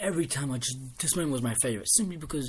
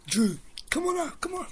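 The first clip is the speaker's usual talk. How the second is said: calling out. Retold or imitated. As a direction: call Drew up to the ring from afar. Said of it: "they say".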